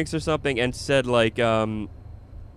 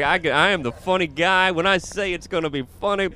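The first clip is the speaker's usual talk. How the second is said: raised, self-important boasting; mock egotistical; 5 semitones higher than usual. Comic mocking his own swollen ego mid-streak, boastful. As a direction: puff yourself up as the funny guy. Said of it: "I got this ego".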